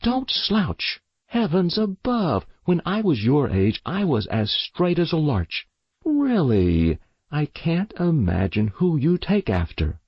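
high, sharp nagging mother; sharp scolding. Acted. Mother nags her slouching daughter, high and sharp. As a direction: nag her like a prim mother. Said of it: "with a sharp voice".

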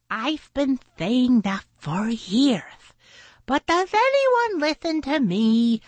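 high, put-on whiny creature voice; Sal complaining. A narrator's reading. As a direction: complain high as an ignored sidekick. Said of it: "Sal said".

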